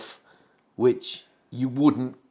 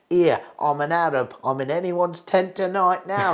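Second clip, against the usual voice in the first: Max Miller; 5 semitones higher than usual. Retold or imitated. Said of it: "turns around to the audience and he goes".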